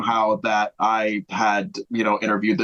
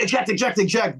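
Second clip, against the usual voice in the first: mock yell; 7 semitones higher than usual. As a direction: imitate a yelling dad with raised pitch. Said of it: "He's yelling at him to eject".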